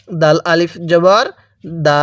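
দা with the vowel drawn out one alif; long-vowel spelling drill. Shown as a demonstration. Teacher shows learners how to read, drawn-out vowel. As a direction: spell it out slowly, then hold দা long. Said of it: "এক আলিফ টেনে পড়ব".

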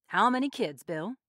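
loud official question; formal asking. A narrator's reading. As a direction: ask it as the official in charge. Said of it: "Mister Summers asked formally".

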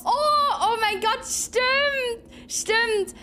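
high pitched oh my god, it clicks; startled remembering; sudden realisation. Real, not acted. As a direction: realise it all at once.

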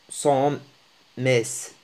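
"sommes" with the final "mes" sounded out; wrong pronunciation demo. Shown as a demonstration. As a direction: mispronounce "sommes" by voicing the silent ending "مس". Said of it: "لا تنطق هكذا".

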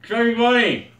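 cheeks stuffed full. Real, not acted. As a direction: mouth full of marshmallows.

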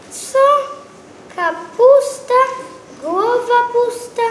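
high, loud scoff; mocking exclamation. A narrator's reading. Narrator scoffing at the cabbage, high and loud. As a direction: sneer at the empty-headed cabbage.

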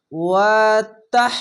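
ওয়াতাহ ending with air pushed out on হ; airy final হ; breathy হা. Shown as a demonstration. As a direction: let the হা breathe out audibly. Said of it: "বাতাস বের করবেন".

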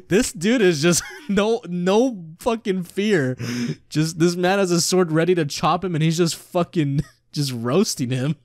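laughing helplessly in disbelief; can barely talk for laughing; cracking up while he describes the scene; laughing through words. Real, not acted. Streamer laughing at the monk.

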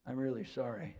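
gently understated heartfelt apology; sincere apology. Shown as a demonstration. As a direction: apologise as if you truly mean it. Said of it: "tell by the tone of the voice".

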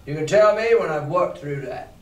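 a hint of a fierce sea captain; lightly voiced stern captain giving orders; fierce commander. Teacher voicing the captain to the innkeeper, a hint of fierce command. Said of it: "looking as fierce as a commander".

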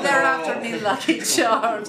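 high, hammed-up Irish catchphrase; mock-Irish leprechaun; Irish accent. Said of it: "I said an Irish accent".

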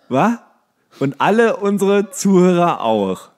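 ordinary talk

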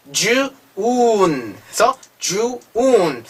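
June drawn out as 'ju... oon'; June in parts. Shown as a demonstration. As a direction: split June and stretch its long 'oo'. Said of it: "유보다는 우, 우가 되죠". (June을 '주, 우운'으로 나누어 길게)

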